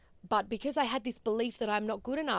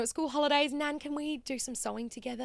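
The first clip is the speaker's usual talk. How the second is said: lightly voiced eager little girl, higher; excited child; 5 semitones higher than usual. Child asking Nan to sew, mildly excited. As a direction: ask like a keen kid. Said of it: "I was so excited".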